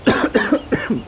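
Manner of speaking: rough little throat-clearing cough; throat-hurt cough. Real, not acted. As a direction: cough after straining the voice. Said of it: "It hurts my throat".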